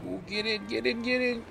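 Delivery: high, rising chant of get in; excited urging. Real, not acted. Urging character into spot.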